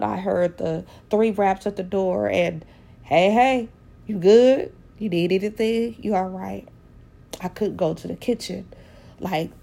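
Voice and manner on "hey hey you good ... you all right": father's greeting. Retold or imitated. Late father's remembered greeting.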